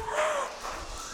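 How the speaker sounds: sharp high scared gasp; frightened gasp. Acted. Friends on the boat in the storm, gasping in fright. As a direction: gasp as the waves crash in. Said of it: "Can you be scared?".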